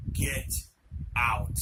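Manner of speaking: two separated, drawn-out words; slow menacing command, pause between words; scary demonic voice. Retold or imitated. Possessed friend staring over at the boys, scary voice. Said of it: "scary ass, holy shit type of voice".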